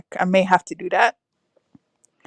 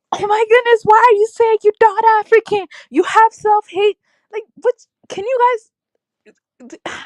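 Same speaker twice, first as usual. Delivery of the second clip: much higher, louder, incredulous outburst; exasperated disbelief; 12 semitones higher, 4 dB louder than usual. Real, not acted. To commenters who deny they're African, exasperated high outburst. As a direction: throw your hands up in disbelief.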